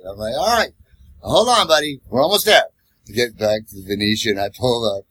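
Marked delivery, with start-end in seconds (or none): 0.4-2.6 upbeat reassurance. Retold or imitated. Cheering the drunk along.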